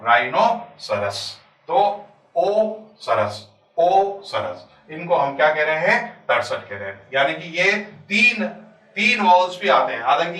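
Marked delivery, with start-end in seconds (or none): 0.0-4.7 राइनो ... सरस slowly, then a drawn-out ओ before सरस; sounded-out word. Shown as a demonstration. Teacher showing the triple rhyme, ओ and सरस slowly separated. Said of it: "ये तीन मिलाकर ये आपका ओ sound".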